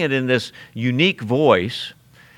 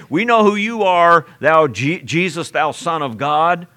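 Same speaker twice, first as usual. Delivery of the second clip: demon voice; 4 semitones higher than usual. Retold or imitated. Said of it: "the demon from within the person would say".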